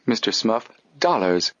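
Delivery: severe correction. Acted. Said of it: "corrected him severely".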